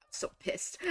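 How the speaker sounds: breathy whispered "pissed"; whispered frustration. Real, not acted. Annoyed at herself, whispering to viewers. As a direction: hiss it under your breath.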